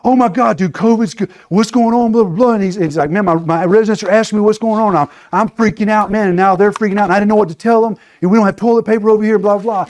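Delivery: mock panic, rushing his words; panicked friend. A friend phoning him mid-covid, imitating panicked rambling. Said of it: "this guy calls me and he's freaking out".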